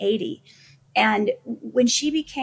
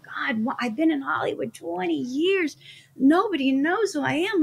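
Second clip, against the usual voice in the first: lightly acted plaintive, higher voice; discouraged complaint; 5 semitones higher than usual. Struggling performer complaining to God about years unnoticed, plaintive. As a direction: lament it to God, pitched up.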